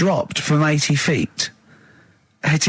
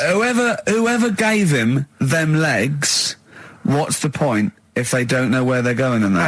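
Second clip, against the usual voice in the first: mimicking Carl. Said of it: "Imagine who gave them that legs".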